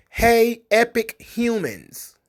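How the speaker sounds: high hey, very slow fam jams; hammed-up cheerful class greeting; mock chirpy greeting. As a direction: stretch it out like a cringey teacher. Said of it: "some of the things that were suggested".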